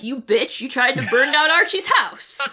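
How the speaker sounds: accusation building in pitch; hammed-up indignant accusation; mock outrage. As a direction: confront him like a soap-opera daughter. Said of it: "goes to Hiram and is like".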